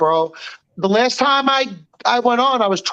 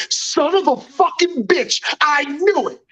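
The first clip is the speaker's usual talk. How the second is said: panicked curse; 6 semitones higher than usual. Retold or imitated. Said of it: "I'm going".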